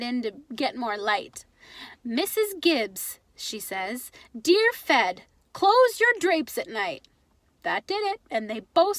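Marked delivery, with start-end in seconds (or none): 2.0-7.1 put-on slow, higher, accented punchline read; Pop reading the reply. Father reading the advice answer to his wife, savoring it.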